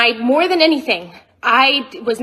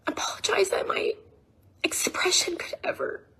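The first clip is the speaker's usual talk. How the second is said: whispered apology; 8 semitones higher, 9 dB quieter than usual. Real, not acted. Apologizing in her own video.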